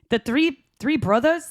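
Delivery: faltering Scottish try; attempted Scottish accent. Cohost quoting the film, attempted Scottish accent. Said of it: "see, I can't do it".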